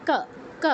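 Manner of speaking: ক said as short 'kuh', not 'kaw'; each ক set apart; Sanskrit ka. Shown as a demonstration. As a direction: demonstrate ক with an unrounded short vowel. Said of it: "কি হবে".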